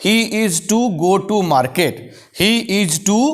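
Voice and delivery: each word said slowly and clearly for the class; slow dictation. Shown as a demonstration. Teacher dictating the example to the class, slow and clear. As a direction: spell it out slowly so students can write. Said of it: "जैसे वह बाजार जाने को है".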